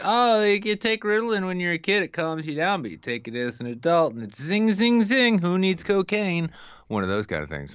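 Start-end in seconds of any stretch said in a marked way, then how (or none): 0.0-6.5 excited quote voice. Retold or imitated. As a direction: squeal it like someone wired on stimulants. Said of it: "it's sorta like people say, like".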